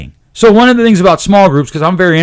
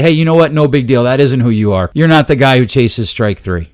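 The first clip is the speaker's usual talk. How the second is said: a lightly voiced coach, low and easy with a struck-out player; reassuring coach; 5 semitones lower than usual. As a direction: coach consoling a player in the dugout, gently reassuring. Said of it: "you give him a pat on the back and you say".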